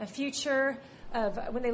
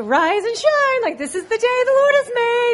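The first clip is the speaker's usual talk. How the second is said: very high, happy, bright, chipper sing-song; 11 semitones higher, 14 dB louder than usual. The speaker quotes their mom setting the tone for the day, imitating mom's happy, chipper voice. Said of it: "this happy, chipper voice".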